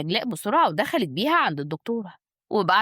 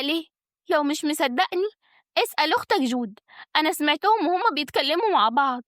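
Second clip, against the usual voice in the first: sly, raised-pitch challenge; malicious; 6 semitones higher than usual. A narrator's reading. Schemer exposes the wife's pills to husband, malicious. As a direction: press the questions with crafty intent. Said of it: "نجلاء قالت بخبث".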